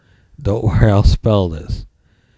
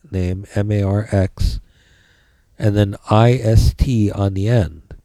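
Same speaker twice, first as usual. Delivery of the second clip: dictating. Shown as a demonstration. Dictating notes to the class.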